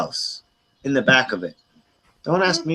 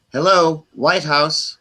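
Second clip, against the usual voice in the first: receptionist voice; slower than usual. Retold or imitated. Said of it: "they answered like this".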